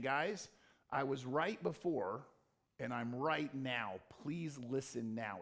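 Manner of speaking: calm pleading. Retold or imitated. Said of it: "What he is doing is he's saying".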